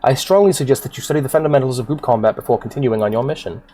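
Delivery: formal fantasy mentor, theatrical delivery; solemn warning from a storybook guildmaster; stately quest-giver. Acted. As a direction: counsel the adventurer grandly, mostly at a brisk clip. Voices game character's dialogue.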